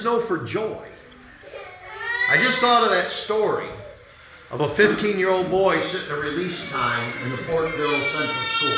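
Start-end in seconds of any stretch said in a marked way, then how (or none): 2.3-8.8 tearful. Real, not acted. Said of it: "this week I had tears".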